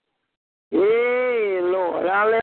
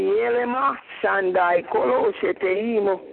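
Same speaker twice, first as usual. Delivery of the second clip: speaking in tongues. Real, not acted. Prayer in tongues.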